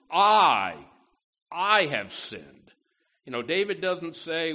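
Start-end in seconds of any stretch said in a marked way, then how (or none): 0.1-2.7 I punched loud, then I have sinned drawn out slowly; emphatic confession. Shown as a demonstration. Preacher voicing David's confession to God, emphatic and slow. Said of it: "it's emphatic in the original".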